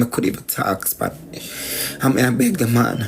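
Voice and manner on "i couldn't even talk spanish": dropped to a near whisper, under the breath; hushed aside. Real, not acted. Telling the story of the cut finger, dropping to a near whisper. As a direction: murmur it as a private admission.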